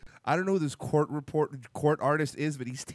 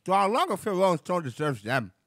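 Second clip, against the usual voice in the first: put-on lightly done Boston mayor accent. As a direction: keep the Boston mayor read going. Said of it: "read it like him with the Boston accent".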